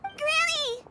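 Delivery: alarmed call across the room. Acted. Shenhe's companion calls to distressed granny, alarmed. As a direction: call to her, worried.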